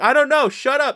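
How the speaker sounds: loud, high-pitched comic outburst; retold cracking-point shout; exasperated mock yell. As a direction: snap under pestering, shouting it out. Retold snapping at repeated questions.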